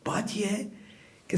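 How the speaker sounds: breathy whispered aside, almost no voice; hushed confidential whisper. Real, not acted. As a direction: lean in and whisper it like a secret.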